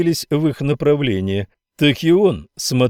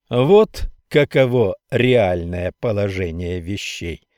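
even tone; 2 semitones lower than usual. Acted. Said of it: "ровно продолжал Миллер".

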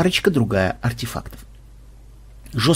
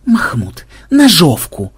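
command; 3 semitones higher, 3 dB louder, slower than usual. Acted. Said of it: "скомандовал Ксенобайт".

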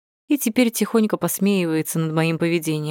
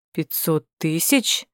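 impressed; slower than usual. A narrator's reading. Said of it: "Соколов даже присвистнул".

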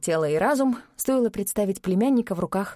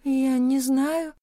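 slow, higher, bleating like a frightened sheep; bleating in fear; 4 semitones higher, much slower than usual. A narrator's reading. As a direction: stammer it out, cowed and timid. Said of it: "заблеяла совершенной овцой".

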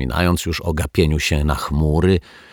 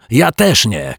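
high, loud protest; shouted retort; 6 semitones higher, 5 dB louder, slower than usual. A narrator's reading. Dominik denies it right after his sister, shouting. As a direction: fire it straight back, shouting. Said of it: "krzyknął Dominik".

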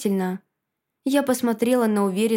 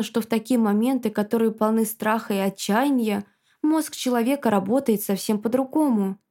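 ordinary delivery, nothing marked

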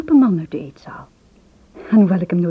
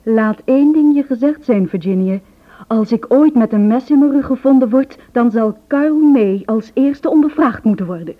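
urgent warning; 4 semitones higher, 5 dB louder than usual. Retold or imitated. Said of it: "zei hij plotseling".

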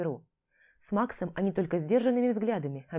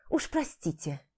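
тихое ироничное извинение; извинись с насмешкой; саркастично; 3 semitones lower, slower than usual. Acted. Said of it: "Не сдержала сарказма". (с сарказмом, тише)

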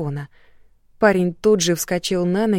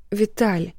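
тихо и дрожа; умоляюще, с лёгкой дрожью; дрожащий голос; 3 semitones higher than usual. Acted. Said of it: "дрожащим голосом просила его". (дрожащим голосом)

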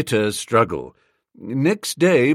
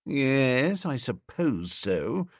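softer, slow doubtful murmur; doubtfully; 5 dB quieter, much slower than usual. Acted. Bertie to his valet, unconvinced, softer and slow. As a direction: let the doubt drag the words down. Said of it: "I said doubtfully".

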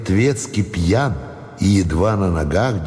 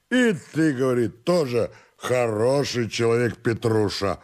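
put-on drunken rambling servant; 3 semitones higher, 5 dB quieter than usual. Drunken servant recounts the clerk's praise, soft sluggish rambling.

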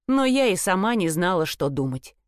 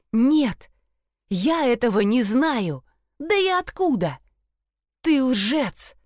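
berserk rage; 4 semitones higher, slower than usual. Acted. Daughter screams at lying father.

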